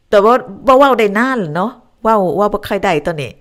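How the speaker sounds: speaking Lao. Shown as a demonstration. Host shows viewers her childhood Lao from grandma, speaking Lao. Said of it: "พูดลาวแล้วแบบว่า".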